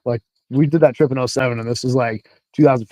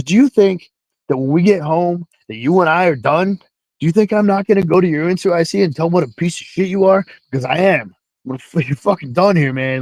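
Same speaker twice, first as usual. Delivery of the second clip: mild mock chewing-out, pitched up at first; retold angry yelling; 5 semitones higher, 3 dB louder than usual. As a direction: imitate a sergeant tearing into someone, without full shouting. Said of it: "team sergeant starts yelling at him".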